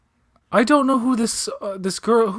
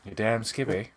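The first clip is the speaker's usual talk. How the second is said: put-on Mid-Atlantic accent; 2 semitones lower, 7 dB quieter than usual. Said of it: "That's how you talk normal".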